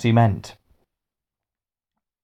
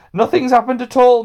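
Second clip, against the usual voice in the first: firm; 13 semitones higher, 4 dB louder than usual. A narrator's reading. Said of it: "said Hamish Bigmore firmly".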